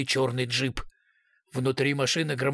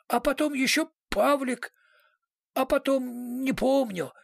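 put-on blackout drunk; 10 semitones higher than usual. A narrator's reading. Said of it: "еле ворочая языком".

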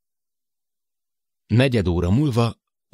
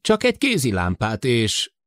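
put-on higher, worried older man over the intercom; Matt's voice; 6 semitones higher, 3 dB louder than usual. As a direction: voice Matt, anxious about the short circuit. Matt's voice continues. (Matt aggódó hangja)

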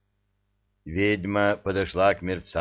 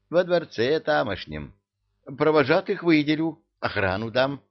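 higher, eager emir voice; 6 semitones higher than usual. Acted. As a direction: rattle it off eagerly.

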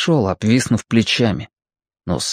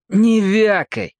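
curt order; 10 semitones higher, slower than usual. A narrator's reading. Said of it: "приказал Квакер".

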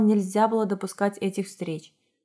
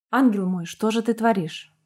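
groan. Acted. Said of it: "простонал мужчина".

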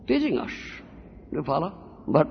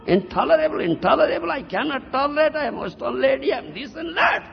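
lightly mocked whining, raised pitch; complaining disciple; 5 semitones higher than usual. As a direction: mimic a disciple's protest in a higher voice. Mimics a complaining Western disciple.

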